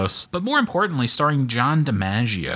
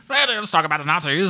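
lightly voiced game show announcer; 8 semitones higher than usual. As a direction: pitch up like a TV host. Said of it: "that voice said".

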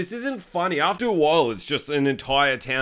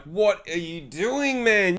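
slow disbelief; 4 semitones higher, slower than usual. Retold or imitated. Mock disbelief at actor.

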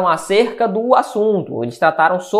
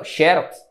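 "Xerox" as XÉ-rox, front stressed; first-syllable stress; 3 semitones lower than usual. Shown as a demonstration. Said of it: "eu coloco bem aqui".

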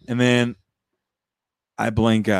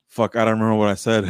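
quick laughing confession; faster than usual. Retold or imitated. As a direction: blurt it out with a laugh. Retold reply to uncle, laughing.

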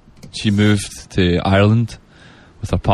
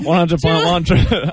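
higher, effortful Australian ident; Aussie accent; 5 semitones higher than usual. Shown as a demonstration. Scottish guest fumbling the station ident, Aussie accent. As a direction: concentrate hard on sounding Australian. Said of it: "actually a pretty good Aussie accent".

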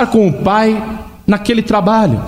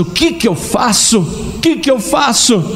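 pensamento aflito; 6 semitones higher than usual. Acted. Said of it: "Ele está pensando".

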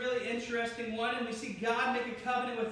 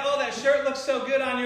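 louder gushing compliment; 8 dB louder than usual. Acted. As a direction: gush over a friend's shirt.

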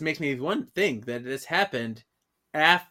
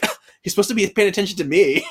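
higher, fast mock indignation; gasp, then protest in playful outrage; hammed-up jealous complaint; 4 semitones higher, 4 dB louder, much faster than usual. Voicing jealous Paige in recap.

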